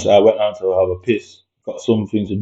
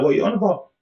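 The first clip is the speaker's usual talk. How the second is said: high, disbelieving retort; incredulous; 10 semitones higher, 4 dB quieter, much faster than usual. Retold or imitated. Answering the partner, high and incredulous. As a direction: pitch it up in disbelief, a touch quieter. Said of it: "I was like".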